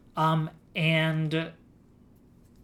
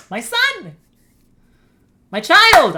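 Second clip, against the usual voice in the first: very high, loud doting shout; excited cry; 12 semitones higher, 13 dB louder, slower than usual. Acted. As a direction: shout it like an overjoyed parent. Excited cry over Ditto.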